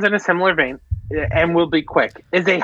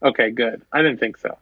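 mock brusque; 5 semitones lower than usual. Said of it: "Why do you do that?".

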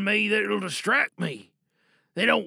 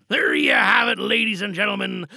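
announcer shout; 2 semitones higher, 5 dB louder than usual. Real, not acted. Host announces end of monologue.

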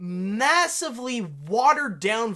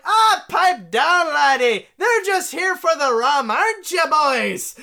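put-on bold Irish pirate lass in an Irish accent; Irish-accented pirate lass bossing the auctioneer; 7 semitones higher, 6 dB louder than usual. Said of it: "I gave her an Irish accent".

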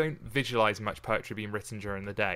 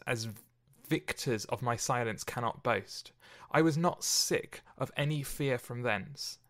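measured, solemn verse reading; reciting a Shakespeare sonnet to open the podcast; poem reading. Acted. Reads the sonnet aloud.

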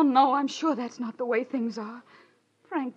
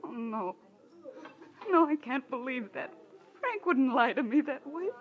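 on the edge of tears, breaking into a sob; holding back tears in disbelief; tearful. Acted. Wife hearing her husband lied to her, tearful. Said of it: "tears take time, honey".

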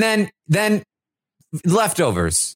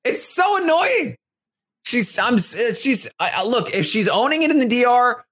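higher pitched, hammed-up complaining rant; mock rant; 6 semitones higher than usual. Host replaying Michael's diary room rant, mock angry. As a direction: vent like a fed-up houseguest. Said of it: "That was the only part of the rant".

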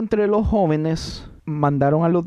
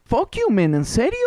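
mock outrage; 8 semitones higher, 3 dB louder than usual. Real, not acted. Mock outrage at friend's teasing.

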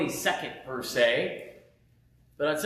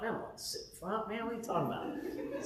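high, soft, quick nervous protest; 5 semitones higher, 11 dB quieter, faster than usual. Retold or imitated. A scared newcomer telling the pastor he won't sit in front. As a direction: plead your way out of the front row. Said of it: "I was scared".

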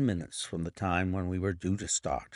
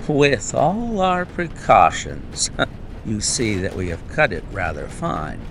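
laughing; 7 dB louder than usual. Acted. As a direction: chuckle through the line, pleased. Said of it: "said Holmes, laughing".

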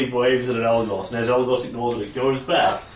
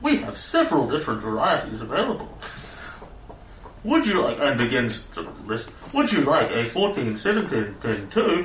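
robot voice. Acted. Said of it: "more of a robot voice".

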